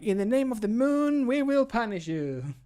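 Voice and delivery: high, loud, sweeping heroic declaration; theatrical hero parody. Retold or imitated. Voice actor mocking an earlier take as overdramatic, theatrical hero parody. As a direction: proclaim it grandly, stretching out the end. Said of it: "the first one was very like".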